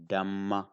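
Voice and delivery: Dhamma with the mm held and stressed; strong sound. Shown as a demonstration. Teacher asking learners to listen, strong doubled m. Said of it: "I say it deeply".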